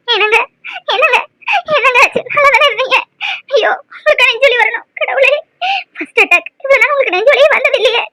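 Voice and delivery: tearful pleading over her husband; crying. Acted. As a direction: weep through the words. Wife weeping over stricken husband. (அழுகையுடன் புலம்பல்)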